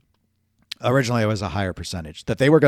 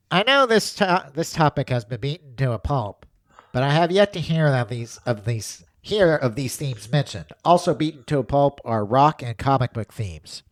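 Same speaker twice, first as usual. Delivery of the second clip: punchy, projected read-aloud voice; hammy mail-segment read; performed letter reading; 4 semitones higher than usual. Acted. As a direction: read the listener's letter out with mock showmanship. Reads listener letter in performed voice.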